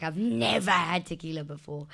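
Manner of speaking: put-on wide-eyed innocence; mock innocent. Woman feigns innocence to guy offering tequila, mock innocent. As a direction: play it innocent, leaning on "never". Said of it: "act like this innocent little thing".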